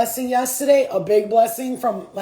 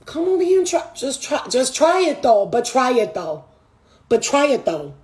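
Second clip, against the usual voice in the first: retold taunting. Human goading spirit guides to try it, taunting. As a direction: re-enact needling someone into a dare. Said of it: "I'll be cursing them out".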